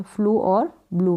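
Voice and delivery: "फ्लू और ब्लू" ending in long oo. Shown as a demonstration. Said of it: "ऊ pronounce करेंगे".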